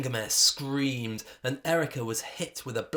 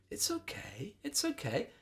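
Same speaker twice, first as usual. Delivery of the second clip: soothing; 9 semitones higher, 5 dB quieter than usual. A narrator's reading. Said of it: "Erica said soothingly".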